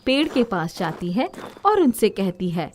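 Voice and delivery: even storyteller voice reading aloud; story narration. A narrator's reading. Narrator telling a village fairy tale, steady storytelling. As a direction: tell the tale calmly to children.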